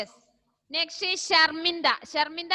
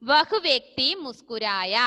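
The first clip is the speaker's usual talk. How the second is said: slow dictation; 6 dB louder than usual. Shown as a demonstration. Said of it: "simple ആയ sentence ആണ്".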